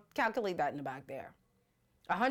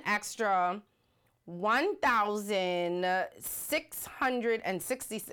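"one thousand six hundred and sixty" read out very slowly, each number apart; drawn-out tally of "one thousand six hundred and sixty"; slow, spelled-out figure; much slower than usual. Shown as a demonstration. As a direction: count it out slowly so it sinks in. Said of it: "Thank you, Sophia".

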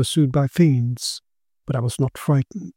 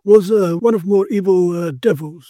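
put-on lightly raised voice of the old investigator, grave; grave Quinn; 4 semitones higher than usual. Quinn explaining the sorcerer's death to his friend, grave and measured.

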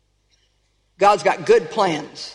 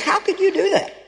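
higher, pained cry at someone lost; hurt, raised question to the departed; anguished plea; 8 semitones higher than usual. Retold or imitated. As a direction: plead with a dead loved one, lightly acted. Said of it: "It's like".

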